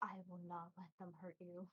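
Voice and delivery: hushed, quiet whisper. In a roleplay, turning to the other teacher in the car, whispering. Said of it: "I just whisper".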